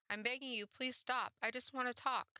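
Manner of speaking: high desperate plea; begging. Acted. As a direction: plead with her to stop, voice rising. Mel begs girl to stop.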